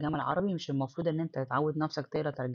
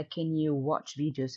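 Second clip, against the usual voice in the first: slow reading; much slower than usual. Shown as a demonstration. Teacher reading the textbook dialogue to students, slow and clear. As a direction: read "do you have a computer to do your homework" slowly and clearly. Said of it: "reads textbook dialogue aloud".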